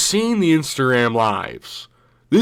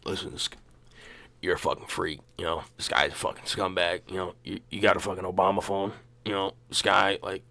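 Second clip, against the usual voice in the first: much softer, low grumbling rant; Colby rant; 4 semitones lower, 8 dB quieter, faster than usual. Retold or imitated. Colby insulting the court, quiet and low. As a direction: mutter insults like a sneering heckler.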